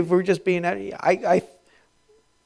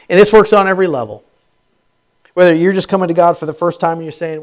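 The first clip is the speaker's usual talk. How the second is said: preaching; 2 semitones higher, 9 dB louder, faster than usual. Acted. Preaching builds.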